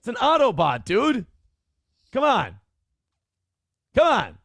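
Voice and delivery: high, loud mock outrage at a pun; exasperated whining. Real, not acted. Groaning at a friend's Autobot pun in high outrage. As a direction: whine it up high like you can't believe him.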